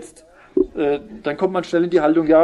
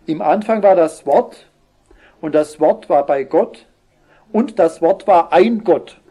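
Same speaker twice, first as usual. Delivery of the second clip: louder scripture reading, weighty; solemn Bible reading; 2 semitones higher, 4 dB louder than usual. Acted. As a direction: read the quoted verse with weight. Reads the Watchtower version aloud. (feierliche Bibellesung)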